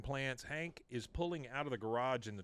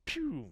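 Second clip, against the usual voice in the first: quick spoken pew for a spin; imitated whoosh; 13 semitones higher than usual. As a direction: make a launching sound effect. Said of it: "he just, like, goes".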